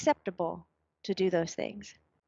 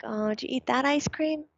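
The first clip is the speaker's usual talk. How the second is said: a touch of sadness, slightly higher; sad statement; 5 semitones higher than usual. Shown as a demonstration. Mother showing a text read sadly, mildly sad. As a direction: say it sadly, let down. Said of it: "it could be a sad statement".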